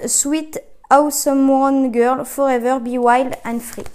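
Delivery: reading English slowly with a strong French accent; self-mocking French accent on English words, a bit slow; mock-proud French accent in English. Real, not acted. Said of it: "mon accent anglais merveilleux".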